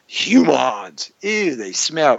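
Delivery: lightly imitated alien disgust; a hint of a disgusted alien saying "Humans"; Ferengi. Host recalls Star Trek aliens, lightly mimicking their disgust. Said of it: "Remember the Ferengi in Star Trek?".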